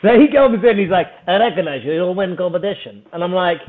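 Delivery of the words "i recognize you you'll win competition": thick mock Russian accent. Russian stranger walks over to him at the gym, mock Russian accent. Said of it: "that is a pristine Russian accent".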